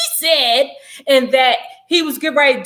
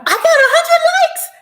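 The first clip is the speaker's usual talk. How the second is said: laughing whisper; 5 dB louder, slower than usual. Real, not acted. Reacting to likes while reading comments.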